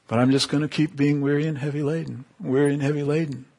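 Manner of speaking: quick, understated grumble to oneself; mock resigned. Believer clinging to their burden, resigned.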